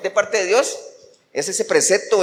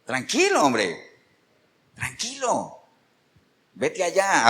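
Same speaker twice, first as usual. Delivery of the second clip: calming the Lord; 5 dB quieter, slower than usual. Retold or imitated. Preacher voicing the Lord calming Saul, soft and easy. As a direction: settle him down quietly, with pauses. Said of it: "¿Qué le dijo el Señor?".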